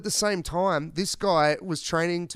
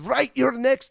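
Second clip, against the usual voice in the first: high, loud menacing call-out; hammed-up threat; tough challenge; 10 semitones higher, 6 dB louder than usual. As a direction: turn to the second guy and challenge him. Old man turns on trucker.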